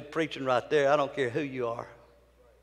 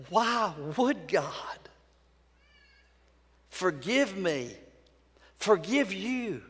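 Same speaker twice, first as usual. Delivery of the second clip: slow, soft, half-whispered question; drawn-out quiet amazement; hushed wonder; 4 semitones higher, 3 dB quieter, slower than usual. Real, not acted. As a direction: ask it in awed disbelief. Awed question about forgiveness.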